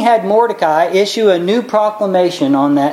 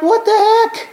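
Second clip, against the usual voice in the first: high, exasperated king blurting it out; a betrayed king losing it, pitched high; outraged king; 14 semitones higher than usual. Retold or imitated. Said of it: "He's like".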